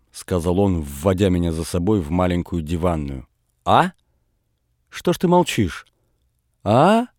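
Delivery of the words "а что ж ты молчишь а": sharp, much higher demand; angry scolding. A narrator's reading. Father scolds his son, holding his ear, angrily. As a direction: press the silent boy for an answer.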